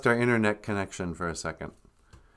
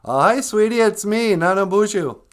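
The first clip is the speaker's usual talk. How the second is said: grandma voice; 8 semitones higher, 5 dB louder than usual. Acted. High grandmother voice on the call.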